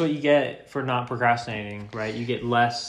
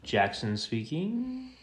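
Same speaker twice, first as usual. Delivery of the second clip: slow, drawn-out announcer welcome; sports announcer; much slower than usual. Pretend. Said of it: "Are you trying to sound like a sports announcer?".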